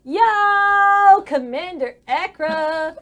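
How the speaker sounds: loud, slow called-out announcement; yelling. Acted. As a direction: yell it across the room. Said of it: "And he yells".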